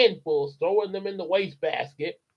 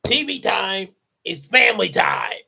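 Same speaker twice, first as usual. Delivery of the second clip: loud, higher snap; shouted retort; 4 semitones higher, 4 dB louder than usual. Acted. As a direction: yell the rule back. Father's retort.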